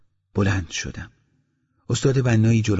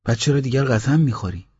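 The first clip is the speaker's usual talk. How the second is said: surprised; 4 semitones higher than usual. Acted. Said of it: "بنا با تعجب گفت".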